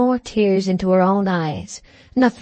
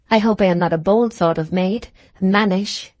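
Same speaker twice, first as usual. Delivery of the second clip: a touch of anxiety. Acted. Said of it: "she continued with some anxiety".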